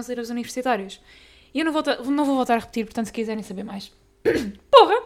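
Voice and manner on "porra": loud, higher snap of annoyance; sudden loud swear; frustrated outburst. Real, not acted. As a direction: curse yourself for fumbling. Swears after tripping over words.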